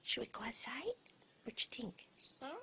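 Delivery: whispering. Real, not acted. Asking pet bird softly.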